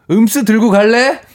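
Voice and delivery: high, put-on asking voice; acted wife's request. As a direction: lilt it up like a casual home request. Reads wife's hated request aloud.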